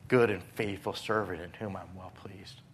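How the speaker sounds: God's words whispered softly; whispered blessing. Acted. Preacher whispers God praising a faithful servant. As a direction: whisper it like a tender benediction.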